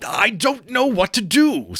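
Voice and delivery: laughing and crying. Acted. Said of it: "laughing and crying in the same breath".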